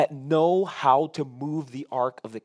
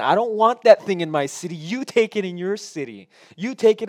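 Philistines refusing; 5 semitones higher, 7 dB louder than usual. Acted. Philistines voiced refusing the ark.

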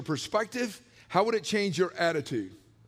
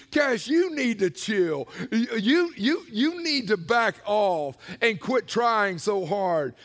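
slow, half-stern you need to chill; a lightly voiced scolding God; voicing God to himself; slower than usual. Preacher imitating God telling him to chill. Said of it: "I used to put the emphasis on me".

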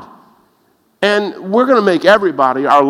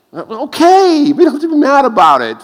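mock calming; 8 semitones higher, 3 dB louder than usual. Mocking a mad atheist.

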